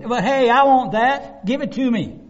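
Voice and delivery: put-on high, loud childish grabbing; mock petulant demand; whiny demand. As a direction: whine it like a greedy child. Believers demanding promises from God.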